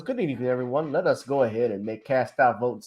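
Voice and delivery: lightly voiced smooth corporate announcer; just a hint of polished official; softly mocking a formal official. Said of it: "he was in the corporate voice".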